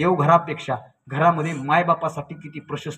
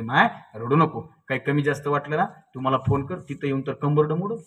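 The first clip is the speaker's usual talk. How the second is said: consoling father; 3 dB quieter than usual. Retold or imitated. Father telling his daughter not to cry, gently consoling. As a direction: soothe a departing daughter a little softly.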